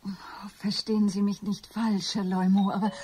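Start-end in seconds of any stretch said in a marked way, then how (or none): none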